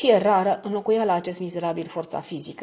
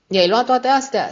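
higher, louder burst of a question; exclaimed question; 6 semitones higher, 7 dB louder than usual. A narrator's reading. Sister questions brother about his loot, crying out. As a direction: cry it out, pitched up. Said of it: "strigă tărtăcuța".

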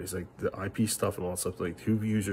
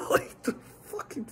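whispered curse; slower than usual. Real, not acted. Swearing aside while laughing.

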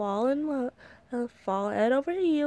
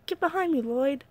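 urgent call; 4 semitones higher than usual. Acted. Protecting Lloyd from villain.

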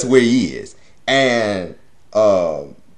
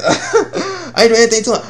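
laughing repeat; 11 semitones higher than usual. Retold or imitated. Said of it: "singing like damn canary".

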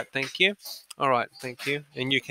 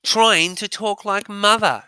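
higher, slow and mocking; voicing Edmund; 6 semitones higher, slower than usual. Edmund mocking Susan, slow sneer. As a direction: sneer at his sister's tone. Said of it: "said Edmund".

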